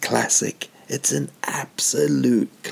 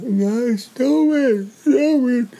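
much higher, louder pleading cry of stop it; crying sister; 4 dB louder, much slower than usual. Retold or imitated. Sister breaking up the school fight, high tearful plea. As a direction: imitate a tearful little sister begging them to stop. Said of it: "my sister came in and was like".

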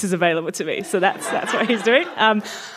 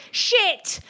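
high, sudden mock exclamation; exclaimed curse; 8 semitones higher than usual. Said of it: "he exclaimed".

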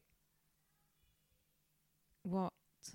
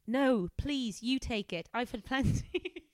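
put-on higher posh English accent; 5 semitones higher, 3 dB louder, slower than usual. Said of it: "Helen is gonna be properly posh".

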